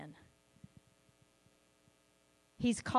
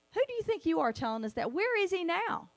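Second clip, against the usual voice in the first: mocking attitude; 5 semitones higher, faster than usual. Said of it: "Gideon is almost mocking in his response".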